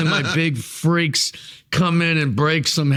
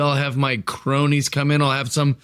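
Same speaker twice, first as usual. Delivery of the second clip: slow, scheming villain boasts; a hint of a gloating wrestling villain; heel promo. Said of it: "I'm the heel".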